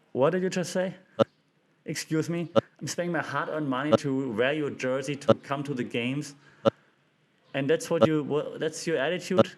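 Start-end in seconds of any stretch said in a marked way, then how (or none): 0.1-6.4 indignant fan. Retold or imitated. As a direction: act the outraged paying fan. Indignant fan addressing LeBron.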